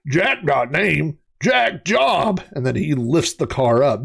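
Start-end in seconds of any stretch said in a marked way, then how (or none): 0.1-2.4 monster voice. Retold or imitated. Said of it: "And he goes".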